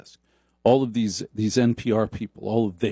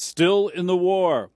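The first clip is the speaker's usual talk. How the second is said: mock solemn; 6 semitones higher, slower than usual. Mocking the movie's plot.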